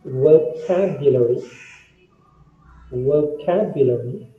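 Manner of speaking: VOCABULARY said carefully, stressed on the second syllable; model pronunciation. Shown as a demonstration. Teacher shows students how to read it, model pronunciation. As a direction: say VOCABULARY as a clear model word. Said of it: "this is how you must read this word".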